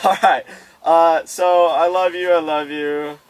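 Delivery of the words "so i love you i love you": mushy, lovey voice. Retold or imitated. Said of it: "Mushy, mushy stuff".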